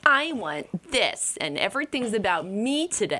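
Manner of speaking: put-on childish demanding adult. Mocking adults who act like children on birthdays, mock whiny. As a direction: play a spoiled adult on their birthday. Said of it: "behave like children".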